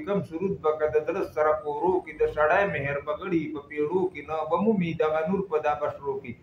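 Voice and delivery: measured, cadenced verse reading; poem recitation. Acted. Reciting Hamid Baba's verse for listeners, poem recitation. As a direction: recite the couplets with rhythmic line endings.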